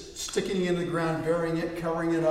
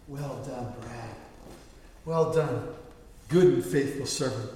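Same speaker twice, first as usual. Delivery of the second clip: tender praise; 4 semitones lower than usual. Retold or imitated. Imagined praise from Jesus.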